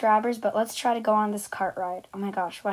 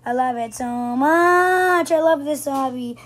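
loud excited yelling; 2 semitones higher, 5 dB louder than usual. Real, not acted. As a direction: shout it out with excitement. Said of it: "Sorry I'm yelling loud".

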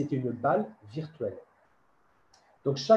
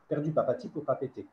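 quick tongue twister; faster than usual. Shown as a demonstration. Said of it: "ça peut être une phrase beaucoup plus complexe".

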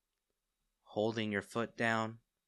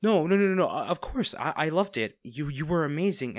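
rushed, higher and louder, tripping over words; flustered denial; 4 semitones higher, 4 dB louder than usual. Acted. Villain hastily reassuring the captive hero, flustered and loud. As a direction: blurt it out, caught off guard.

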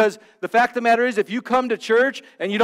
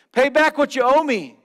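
higher, louder demand for payment; harsh demand; 6 semitones higher, 6 dB louder than usual. A narrator's reading. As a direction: bark it at the debtor. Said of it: "he demanded".

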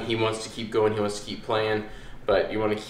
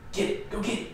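high, eager fetch command; excited urging; 11 semitones higher, 6 dB quieter than usual. Real, not acted. Trainer urging the puppy to fetch, high and eager. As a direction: rev the puppy up to chase it.

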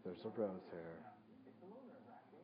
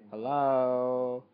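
a loud, long call into the mic; 12 dB louder than usual. Real, not acted. Vlogger calling out to check the mic, loud. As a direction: shout it out to check the mic is working. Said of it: "Hello? (first said plainly)".

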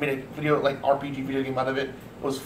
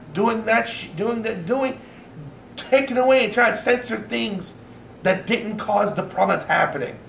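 angry rant; 6 semitones higher than usual. Real, not acted. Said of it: "I'm sorry to be angry".

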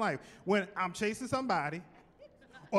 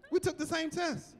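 higher teasing repeat; 8 semitones higher than usual. Real, not acted. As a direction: tease them with a lifted repeat. Teasing jealous branches.

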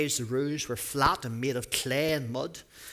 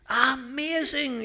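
much higher, louder, slow "Amazing"; yelled; 12 semitones higher, 5 dB louder, much slower than usual. A narrator's reading. Crowd amazed at the healing, loud drawn-out yell. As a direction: let the crowd roar it out. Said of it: "yelled the crowd".

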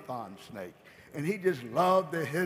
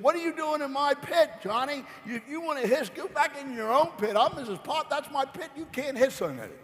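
put-on high, sharp neighbour scolding a kid; 8 semitones higher than usual. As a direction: play the territorial viper lady, pitched up. Missus Pot voiced scolding Johnny.

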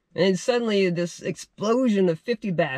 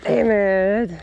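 annoyed curse; 3 semitones higher than usual. Real, not acted. Snag while reeling, cursing.

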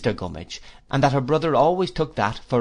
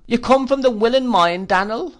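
high, loud plaintive widow's whine; Missus Gummidge; 12 semitones higher, 6 dB louder than usual. Acted. Mrs Gummidge pities herself at dinner, high whine. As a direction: whimper it like a self-pitying old widow.

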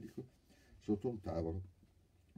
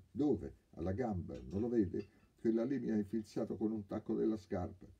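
indignant complaint; 6 semitones higher, 5 dB louder than usual. Acted. Injured thief complains loudly.

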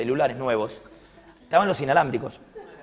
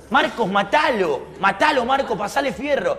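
higher, insistent retold command; urging an accomplice; 5 semitones higher than usual. Robber telling his partner to kill Mario, insistent urging. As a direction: egg him on, drawing out the order.

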